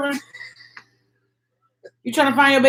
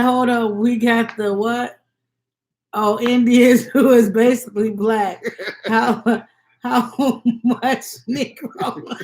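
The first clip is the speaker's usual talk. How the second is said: laughing through a quote; slower than usual. Retold or imitated. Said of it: "What Mukbang say?".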